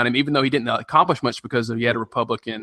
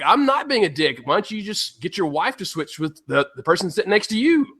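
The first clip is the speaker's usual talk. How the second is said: laughing retort; 7 semitones higher than usual. Retold or imitated. Retelling his own snarky reply.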